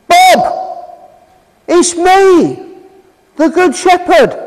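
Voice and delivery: lightly voiced shepherd calling a name. The good shepherd calling one of his sheep, a light calling voice. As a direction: call out gently but clearly, as if across a field. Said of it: "he calls them by name".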